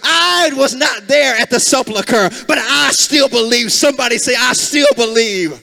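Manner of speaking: rising call-and-response sermon cadence, building; preaching at full force. Acted. Preacher rallying the congregation, full-force preaching. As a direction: preach it to the room, pushing each line harder.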